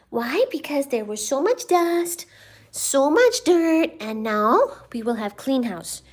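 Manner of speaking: high cooing explanation to the cat. Real, not acted. Baby talk to the cat.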